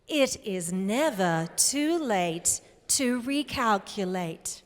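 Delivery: lightly voiced satnav, slow and measured; GPS voice. Shown as a demonstration. Speaker leading the audience in their best GPS voice, lightly done. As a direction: say it slowly like a GPS prompt. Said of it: "your very best G P S voice".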